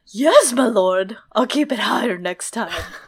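voice like a horse. Reading a story aloud, the narrator voices a character answering his lord, horse-like voice. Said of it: "I tried to channel a horse-like voice".

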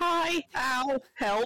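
acted, put-on cries of pain. Voicing a character impaled on a horn: pained cries. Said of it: "got Ava impaled on one of his horns".

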